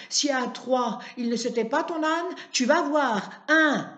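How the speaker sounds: put-on shrill furious shriek from an old woman at her window; old neighbour woman screaming insults at Martin; furious yelling.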